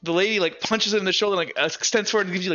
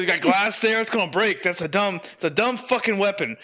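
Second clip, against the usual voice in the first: lightly voiced scornful tough, pitched higher; gruffly critical big guy; 3 semitones higher than usual. Big guy judging Dipper's dagger, lightly voiced scorn. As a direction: pick the weapon apart, incredulous.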